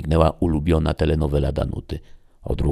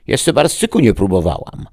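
high, loud croak of a granny; croaking old woman; 8 semitones higher, 9 dB louder than usual. A narrator's reading. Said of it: "zaskrzeczała Genowefa". (skrzekliwym głosem staruszki)

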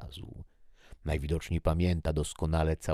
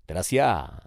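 calling out; 3 semitones higher, 7 dB louder than usual. Acted. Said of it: "zawołało życie".

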